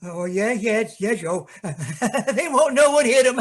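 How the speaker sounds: giggles through the threat; childlike glee with laughter; laughing eagerly; gleeful giggling. Acted. Simple-minded brother gloats, laughing.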